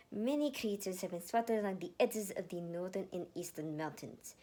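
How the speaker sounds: lightly voiced firm commander; commander briefing. Commander Jultin briefing her boys, lightly commanding. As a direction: give the orders with authority.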